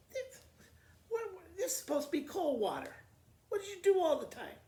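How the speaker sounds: high, loud, fast outraged mama; angry yelling. Acted. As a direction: shout at the daughter over the water.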